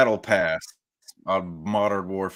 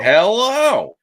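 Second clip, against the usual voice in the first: loud, drawn-out hello climbing high; slow, soaring catchphrase hello; Nathan; 10 semitones higher, 6 dB louder than usual. Acted. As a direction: stretch the greeting in a mimicking swoop. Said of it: "That's my best Nathan impression".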